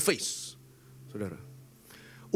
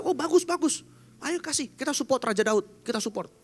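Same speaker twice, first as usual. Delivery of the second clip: much higher, pleased master's voice; mock delight as the master; 11 semitones higher than usual. Mephibosheth voiced in story. (tuan yang senang, suara jauh lebih tinggi)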